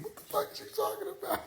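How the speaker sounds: fast, breathless whispered laugh. Real, not acted. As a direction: barely get it out through laughter. Laughing aside.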